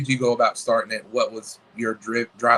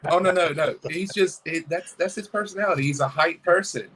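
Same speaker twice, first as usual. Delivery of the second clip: retold reassurance; 5 semitones higher than usual. Retelling his reassurance to his daughter.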